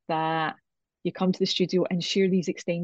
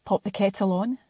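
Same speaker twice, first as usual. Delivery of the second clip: measured, welcoming intro read; scripted podcast intro. Acted. Host invites listeners to join the chai sessions, scripted intro.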